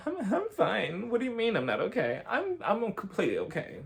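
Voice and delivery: a mock brave face, near tears with a laugh; imitating Erica. Erica acting upset and fine.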